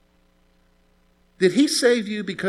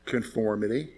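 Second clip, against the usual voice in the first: hushed one-word answer; 7 semitones lower, 9 dB quieter than usual. Acted. Preacher answering his own question, quiet. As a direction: let the word sink in quietly. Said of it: "Why did I dress that way?".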